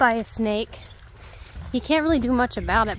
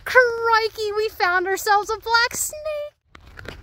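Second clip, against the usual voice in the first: high, slow Australian wildlife-host voice; Steve Irwin style Australian; 9 semitones higher, much slower than usual. Pretend. Hiker finding a snake, hamming up an Australian wildlife-show host. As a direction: ham up an Australian croc hunter accent, slowly. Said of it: "Why did I turn into a British accent?".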